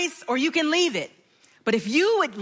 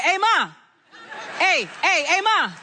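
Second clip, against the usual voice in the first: put-on boys calling mom; 4 semitones higher than usual. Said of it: "they'd be like".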